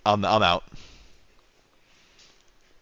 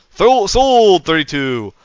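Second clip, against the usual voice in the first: auctioneer voice; 7 semitones higher, 7 dB louder, much slower than usual. Shown as a demonstration. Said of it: "my auctioneer voice".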